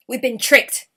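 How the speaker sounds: loud angry growl; the king realises he was fooled; growling goblin king. Acted. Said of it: "growled King Gobbledygook".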